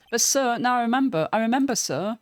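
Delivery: excited patrolman. Acted. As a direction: blurt it out, thrilled. Meekins remembers.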